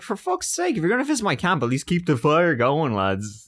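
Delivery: mock grumbling explorer.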